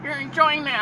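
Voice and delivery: very high, slow cooing; patronizing stranger. Acted. Stranger praising his caregiver outing, condescending. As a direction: talk down sweetly, high and drawn out. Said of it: "You should be talking to me like that".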